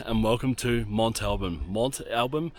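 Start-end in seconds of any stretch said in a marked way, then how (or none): 0.9-1.6 "Mont Alban" said as MONT AL-bum; first pronunciation. Shown as a demonstration. Vlogger welcoming viewers to the site, first pronunciation attempt. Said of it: "heard this pronounced so many ways". 1.7-2.5 "Mont Alban" tried higher, lifting like a question; questioning pronunciation. Shown as a demonstration. Vlogger confused by the site's name, questioning pronunciation. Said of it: "heard this pronounced so many ways".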